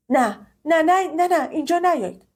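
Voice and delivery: high, rushed repeated no; frantic refusal. Acted. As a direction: stop him in a panic. Frantically refusing his coming. (نه گفتن هراسان)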